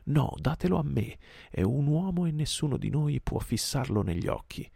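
high, insistent tiger's demand; crying out. A narrator's reading. Shere Khan demands Mowgli from the pack, crying out. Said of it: "gridò Shere Khan".

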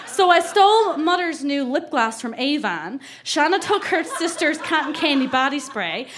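put-on light Newfie accent reading a diary; Newfoundland accent. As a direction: lean lightly into a Newfoundland small-town accent. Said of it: "I really have to put on the accent".

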